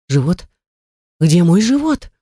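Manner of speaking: panicked. A narrator's reading. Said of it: "настоящая паника".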